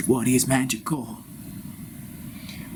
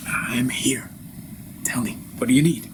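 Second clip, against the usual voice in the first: translator voice. Acted.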